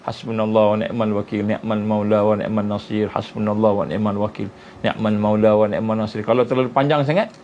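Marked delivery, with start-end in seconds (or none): 0.1-6.2 recited dhikr. Shown as a demonstration. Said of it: "sepanjang jalan baca".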